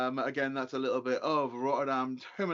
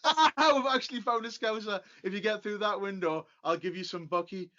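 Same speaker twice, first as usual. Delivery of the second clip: excited; 5 semitones higher, 3 dB louder than usual. Retold or imitated. Retelling finding a Scouser.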